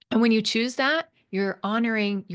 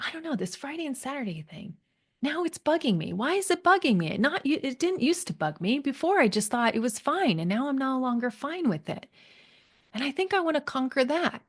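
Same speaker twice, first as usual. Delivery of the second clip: higher-pitched, mildly troubled retelling; bothered client; 5 semitones higher than usual. Retold or imitated. Client tells her coach it's bugging her now, lightly bothered. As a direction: lightly voice a client puzzled by her own unease.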